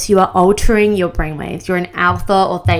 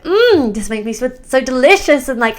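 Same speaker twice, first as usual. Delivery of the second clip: excited gushing. Shown as a demonstration. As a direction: gush like it's the best feeling ever. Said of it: "use exciting words that will excite the brain".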